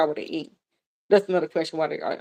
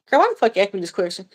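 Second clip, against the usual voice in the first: fast, laughing mock complaint ending in a giggle; real laughter over a teasing gripe; laughing protest; much faster than usual. Real, not acted. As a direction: rush it out through laughter. Laughing complaint after near tears.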